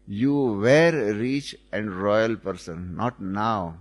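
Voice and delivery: measured, slow retort; retold retort. Baba answering the proud man who claims to be rich, a slow retort. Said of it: "Baba retorted".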